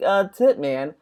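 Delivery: mock a clueless streamer thanking a tipper. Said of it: "And you're like".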